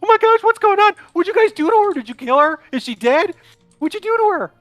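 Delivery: horrified Smedley. Acted. Smedley seeing the burned woman, squealing in horror. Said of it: "kind of running up".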